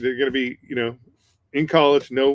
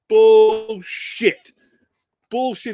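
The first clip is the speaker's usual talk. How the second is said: a higher, loud mock scoff; disbelieving shout; 8 semitones higher, 7 dB louder, much slower than usual. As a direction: scoff at it like a doubting crowd. Marines refuse to believe him.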